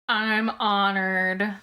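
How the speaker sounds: "I'm honored" stretched very slowly, "I'm" leaned on; drawn-out "I'm honored". Real, not acted. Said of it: "I'm honored to be so many".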